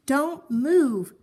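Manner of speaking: father warning the family; urgent shout. Acted. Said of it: "shouted Mister Watson".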